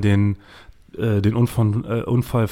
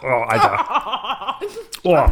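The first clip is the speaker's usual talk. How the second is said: eating sour candy; 11 semitones higher, much slower than usual. Real, not acted.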